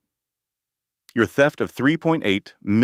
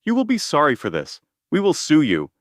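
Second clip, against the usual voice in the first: shouting threat; 8 semitones higher than usual. A narrator's reading. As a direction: shout it while being dragged out.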